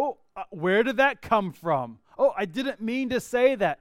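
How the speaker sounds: shocked at yourself. Retold or imitated. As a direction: catch yourself, dismayed. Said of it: "and you go".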